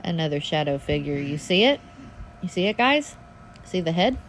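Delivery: urgent, thrilled spotting; excited. Real, not acted. Spotting a ghost figure, excited.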